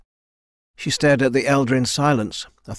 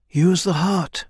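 urgent elder, pitched up; urging; 7 semitones higher, 3 dB louder, slower than usual. A narrator's reading. Elder advises Kai during the fight, urging. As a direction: urge it across a battle at higher pitch. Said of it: "the elder urged".

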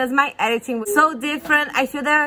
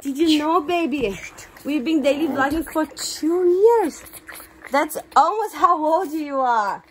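playful mommy talk with lilting pitch; 3 semitones higher, slower than usual. Real, not acted. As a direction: tell the little one big news, drawn out. Mother talking to her baby.

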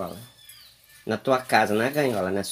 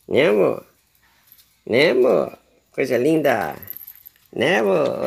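put-on pet baby talk; 4 dB louder, slower than usual. Owner coaxing her pet bird Maria do Carmo to eat, cooing. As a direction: coo sweetly at the little bird.

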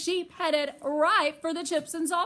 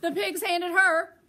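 louder, higher, tickled by the gift; amused; 6 semitones higher, 6 dB louder than usual. A narrator's reading. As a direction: read it like a delighted joke.

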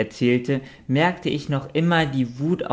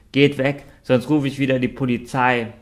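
drohender Wachmann; 3 semitones higher, 3 dB louder than usual. Acted. Security droht den Gnomen.

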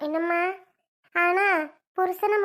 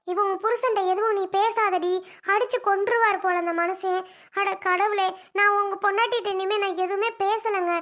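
distressed, higher-pitched protest; alarmed pleading; 3 semitones higher than usual. Acted. Neighbour begging husband to stop beating his wife, alarmed. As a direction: beg urgently, voice lifted in alarm.

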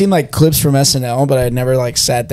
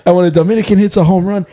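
higher-pitched comic bragging, stretched endings; sketch correspondent; 5 semitones higher than usual. Retold or imitated. Friend retelling the home run bit, correspondent voice. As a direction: build the boast, drawing out each payoff. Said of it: "But he's like".

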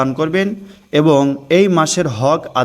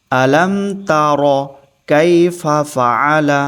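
each syllable drawn out slowly; slow recitation; much slower than usual. Shown as a demonstration. Teacher reciting for the class to follow, slow and clear. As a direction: recite it slowly for students to repeat. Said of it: "আরেকবার পড়ুন".

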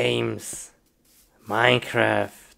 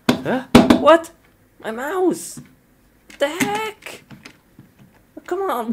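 high, frantic complaining; high-pitched flustered protest; panicked whining; 11 semitones higher, 6 dB louder than usual. Pretend. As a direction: squeal in alarm at the mouse. Panicking over a broken mouse.

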